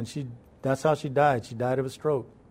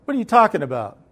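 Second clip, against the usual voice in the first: raised-pitch, mildly indignant question; puzzled challenge; 4 semitones higher, faster than usual. Retold or imitated. Grandma baffled by talk of heaven, mildly challenging. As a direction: ask it as a bewildered grandma, not yet angry. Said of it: "she goes".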